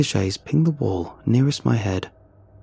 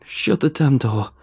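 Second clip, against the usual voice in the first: a touch of a scream, louder; 4 semitones higher, 3 dB louder than usual. Acted. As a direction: snap out a frightened scream. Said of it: "she screamed suddenly".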